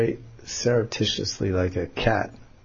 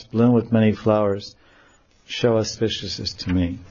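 verse reading. Acted. Reads translated verse.

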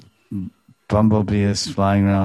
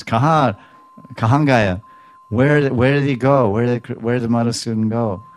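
high, tearful pleading for the lost lover; a lightly acted lament, voice raised and searching; mock crying; 4 semitones higher, 4 dB louder than usual. Radharani, missing Krishna on his lap, cries out. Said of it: "She's crying".

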